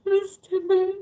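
high, loud squeal of a name; excited greeting. Real, not acted. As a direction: call the name out with delight.

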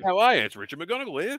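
high, loud mock-Aussie voice; hammed-up Australian twang; Australian accent. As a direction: ham up a broad Australian introduction. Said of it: "do it in an Australian accent".

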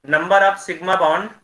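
very slow, each word drawn out; slowly. Real, not acted. Teacher slows down so students hear through the lag. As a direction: spell it out slowly over a breaking line. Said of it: "slowly बोल रहा हूँ ताकि आवाज़ cut भी रहा".

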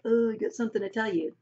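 suddenly serious, a bit quick; sobered. Shown as a demonstration. Teacher showing the class how Judah sobers, suddenly serious. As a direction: drop the cheer and get serious. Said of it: "sobered like".

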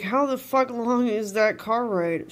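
slow, loud, annoyed mock rant; loud slow mocking tirade. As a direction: mimic him barking the line. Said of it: "He's like".

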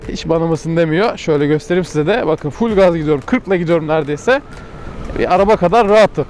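talking while riding over bumps; on a bumpy road. Real, not acted. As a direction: voice jolted by a rough road. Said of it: "yol bozuk".

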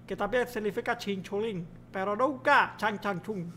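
hammed-up Chinese-accented language teacher; babbling mock Chinese accent. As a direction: lecture in a caricatured Chinese accent. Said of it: "mi amigo Chin Chung Chang".

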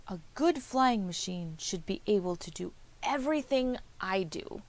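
a hint of a chirpy bird, pitched a little up; lightly voiced little bird. Bird boasts of its flying.

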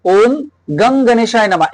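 গং as "gung", neither "gaang" nor "gong"; short neutral vowel in গং; in-between vowel. Shown as a demonstration. Teacher showing the actual mantra sound, গং with a middle vowel. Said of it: "actual না গাং".

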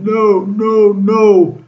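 high mock yelling of a retold complaint; a hammed-up shriek, pitched well up; imitating screaming. Retelling a man screaming at him, in a high mock yell. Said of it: "He was screaming, yelling".

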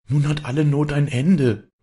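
put-on girl's voice lifts high with relief; joyful cry. A narrator's reading. Maren to the widow, rejoicing: high excited exclaim. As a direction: call it out with bright hope. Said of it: "rief Maren".

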